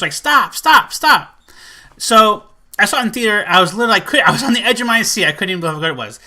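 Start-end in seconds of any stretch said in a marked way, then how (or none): 0.1-1.4 higher, punched repeated plea; imitating a cringing viewer; mock cringing plea. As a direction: act out begging it to end. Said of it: "It makes you cringe".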